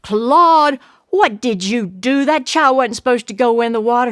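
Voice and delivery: scolding. Acted. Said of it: "Addie just jumped up and said".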